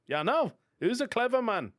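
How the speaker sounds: mock self-praise. Real, not acted.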